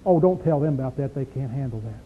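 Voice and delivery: low, soft secretive aside; hushed quote. Retold or imitated. Preacher mimicking churchgoers hushing the truth, softly. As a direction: hush it like a church gossip. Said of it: "Do you ever hear this?".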